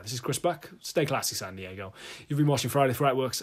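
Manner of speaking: lightly voiced TV anchorman; a hint of a cheesy news anchor. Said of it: "That sounds like a news anchor".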